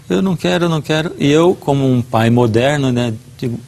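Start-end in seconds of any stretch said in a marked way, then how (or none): 0.1-1.1 put-on crying child. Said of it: "Ele começou a chorar".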